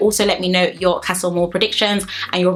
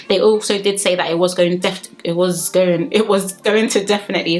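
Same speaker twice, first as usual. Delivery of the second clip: slightly slurred speech; words running together, slurred; slurring words. Real, not acted. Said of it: "sorry guys, I'm slurring my words again".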